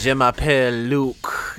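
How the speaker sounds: slow, suave French; playful French pickup line; mock French accent. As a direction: purr it like a French charmer. Quotes French class line.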